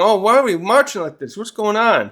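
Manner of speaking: put-on confused kid voice. Kids waking up confused.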